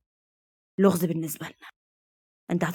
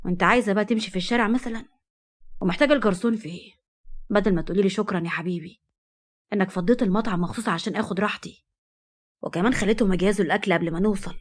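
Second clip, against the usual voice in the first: cold and jealous. Acted. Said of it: "رد ببرود وغيرة".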